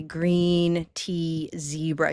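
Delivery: GREEN TEA ZEBRA with long, drawn-out EE sounds; slow vowel demo; stretched vowels. Shown as a demonstration. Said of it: "You can hear that".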